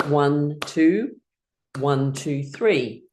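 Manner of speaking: "One, two" spaced, then "one, two, three" evenly; rhythmic count. Shown as a demonstration. Teacher showing clap rhythm, "One, two, one, two, three" counted evenly. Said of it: "we clap in a rhythm".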